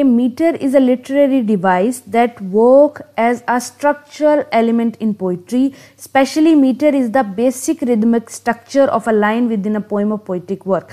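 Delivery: reads the definition word by word, very slowly; slow dictation. Acted. Teacher dictating a definition of meter to students, very slow. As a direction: spell it out slowly so students can write it down.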